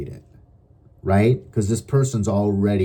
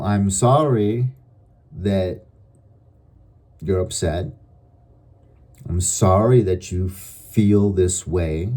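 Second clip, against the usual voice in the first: calm apology; slower than usual. Shown as a demonstration. To an irate person, slow calm apology. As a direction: soothe without giving ground. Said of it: "you can apologize without admitting".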